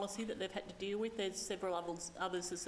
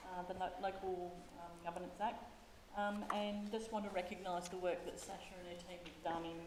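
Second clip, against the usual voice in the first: muffled, distant voice through a face shield. Real, not acted. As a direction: speak as if behind a plastic visor. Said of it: "You just sound very distant".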